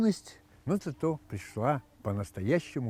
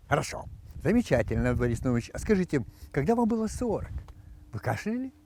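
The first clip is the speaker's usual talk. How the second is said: doctor voice. Acted. Doctor questions patient.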